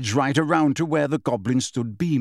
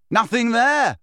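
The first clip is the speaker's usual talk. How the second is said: raised, high-pitched jeer; defiant shout; 9 semitones higher, 4 dB louder than usual. A narrator's reading. Harry shouting at the witch, defiant. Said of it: "he shouted".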